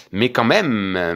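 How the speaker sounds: slow, stretched even so; drawn-out protest. Real, not acted. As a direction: drag the words out in disbelief. Protests about the missing letter. (lent et traînant, incrédule)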